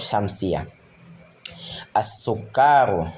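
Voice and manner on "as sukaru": slow As-sukaru, straight into a doubled s; lam left silent. Shown as a demonstration. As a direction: hold the s of As-sukaru with no l sound. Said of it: "tidak dibaca alif lamnya".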